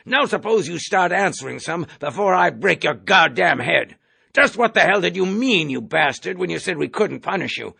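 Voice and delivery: loud, high threatening bark; furious colonel. Acted. Colonel bullies Clevenger at the hearing, raging. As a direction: threaten to break his head.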